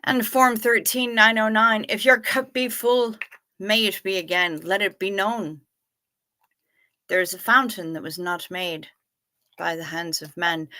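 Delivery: a light hint of an Irish lilt; Irish blessing. Host giving chat a mock Irish blessing, lightly lilted. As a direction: recite it like a lightly Irish toast. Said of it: "I felt the need to be Irish there".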